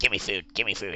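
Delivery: low, put-on monster voice. Imitating a monster that sounds like Beavis and Butthead. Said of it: "he sounds like Beavis and Butthead".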